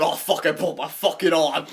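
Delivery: imitated pained yell. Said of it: "he slipped and he said".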